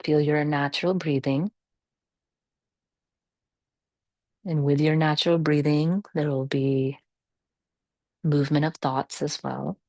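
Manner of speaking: calm, measured meditation guidance with long pauses; guided meditation. Real, not acted. Yoga teacher settling the class into natural breathing, calm guided meditation. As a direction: guide them gently through the breath, unhurried.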